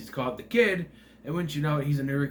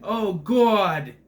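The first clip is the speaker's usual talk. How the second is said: put-on odd American accent; 6 semitones higher, 7 dB louder than usual. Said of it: "like Rosamund Pike saying".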